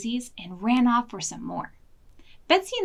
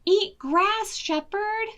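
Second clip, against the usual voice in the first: wolf taunt; 10 semitones higher, 5 dB louder, slower than usual. Acted.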